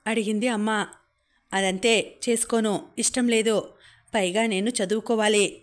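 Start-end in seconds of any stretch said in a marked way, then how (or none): 1.5-5.6 understated obstinate refusal; mildly stubborn. Acted. Daughter refusing the marriage to her mother, mildly stubborn. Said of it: "మొండిగానే చెప్పాను".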